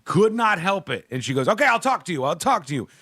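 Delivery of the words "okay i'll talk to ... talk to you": mock her put-on Spanish accent; lightly imitated Spanish accent, eager to talk; a hint of a faux-Spanish accent; over-the-top fake Spanish accent. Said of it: "And she's doing her accent, which is over the top".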